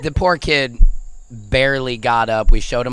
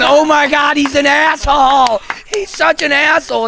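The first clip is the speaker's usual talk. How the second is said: much higher, half-shouted Oh my God; shocked exclamation; 14 semitones higher, 4 dB louder than usual. Retold or imitated. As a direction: blurt it out in shock, pitched way up. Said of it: "'cause I'm going".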